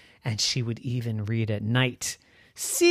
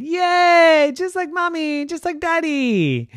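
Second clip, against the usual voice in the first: put-on high, squealing little-girl delight; thrilled to get glasses like her parents; much higher, excited child voice; 6 dB louder than usual. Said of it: "She was so excited".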